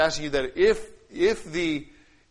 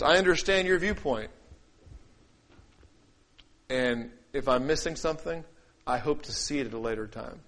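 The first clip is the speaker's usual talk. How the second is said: humble. Shown as a demonstration. Preacher showing how humility answers another viewpoint, humble and sincere. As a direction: grant their point, then ease the voice down. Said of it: "Humility sounds like this".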